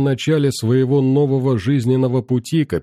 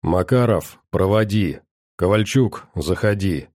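growled orders; 3 semitones lower than usual. Acted. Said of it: "рыкнул капитан".

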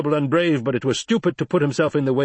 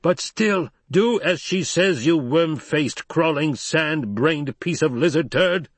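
roaring; 6 semitones higher than usual. A narrator's reading. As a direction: roar the insults down the slope. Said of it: "Stilgar roared".

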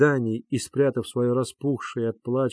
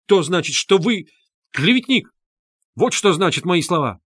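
high, loud cry of clean outrage; heated accusation; 6 semitones higher, 5 dB louder than usual. A narrator's reading. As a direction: hurl the word клеветник at him. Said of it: "горячо проговорил Лебезятников".

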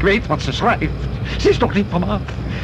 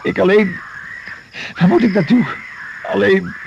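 rising alarm; 5 semitones higher than usual. Acted. Survivor realises being the only one left.

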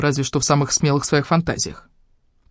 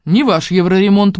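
grumbling; 4 semitones higher, 4 dB louder than usual. Acted. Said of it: "буркнула я".

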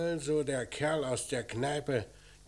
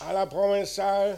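raised, louder voice projecting down the line; loud phone orders; 6 semitones higher, 6 dB louder than usual. Acted. Inspector orders his men over the phone, loud and firm. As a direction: bark instructions into the receiver.

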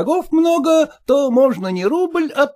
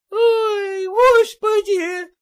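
higher, drawn-out wail into a sob; the cook bursting into tears; 11 semitones higher, much slower than usual. Acted. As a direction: cook breaking down as her mistress leaves. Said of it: "Кухарка вслух заревела".

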